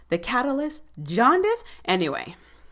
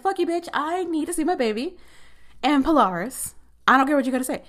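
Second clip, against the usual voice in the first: mock furious retort; 7 semitones higher, faster than usual. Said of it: "And he's just like".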